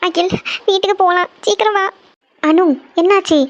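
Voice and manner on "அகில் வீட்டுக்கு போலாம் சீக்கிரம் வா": upset and tearful. Acted. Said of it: "எதுக்கு அழுதுட்டு இருக்கீங்க?".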